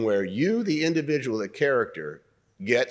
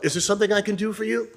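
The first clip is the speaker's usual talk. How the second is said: toned-down offer; 10 semitones higher, faster than usual. Shown as a demonstration. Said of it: "almost be saying it to yourself".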